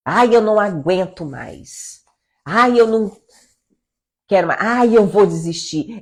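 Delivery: acted-out moan of someone giving up; exasperated complaint. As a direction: complain loudly, as if fed up. Acts out discouraged woman complaining. (lamento encenado de quem não aguenta mais)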